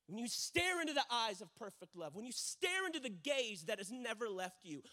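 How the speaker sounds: loud, building pulpit cadence; impassioned preaching. Real, not acted. Preacher urging listeners to behold Jesus, impassioned preaching. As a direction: drive each repeated phrase home.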